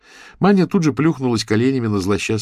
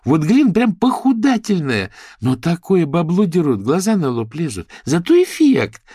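high, lively gossip; higher, louder gossipy girl; chatty girlfriend voice; 11 semitones higher, 6 dB louder than usual. Acted. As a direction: voice a bubbly socialite raving. Character voice in audiobook.

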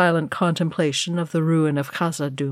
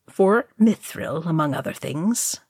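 diplomatic. Acted. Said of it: "Gandalf answered diplomatically".

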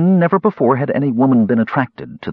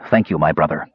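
cold; 4 semitones lower than usual. Acted. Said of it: "Raistlin's tone was cold".

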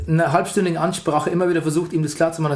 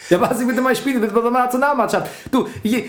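put-on Austrian accent; 5 semitones higher than usual. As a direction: brag in a thick Austrian accent. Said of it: "Mach Mario Götze mit österreichischem Akzent".

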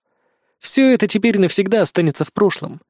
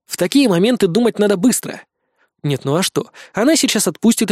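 plain reading voice

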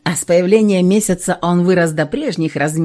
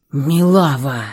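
relieved exhale; 4 semitones lower, slower than usual. Acted. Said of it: "облегчённо выдохнул месяц".

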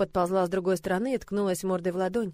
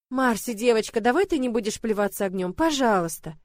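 pleading. Acted. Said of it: "я взмолилась".

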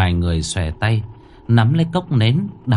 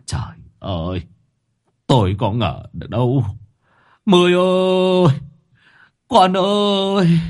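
anguished wail; 8 semitones higher than usual. A narrator's reading. Old father mourns his son Mười, anguished wail. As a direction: cry out in grief for a dead son. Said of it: "Ông đau đớn thốt lên chua xót".

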